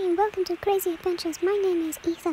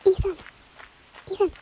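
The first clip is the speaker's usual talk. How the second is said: calling out; 3 semitones higher, faster than usual. Real, not acted. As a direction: call his name across distance. Calling out to friend.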